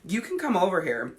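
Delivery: mildly bitchy invitation. Retold or imitated. Inviting the lurking mom into the group, bitchy. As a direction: toss out a grudging invite. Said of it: "all fucking bitchy".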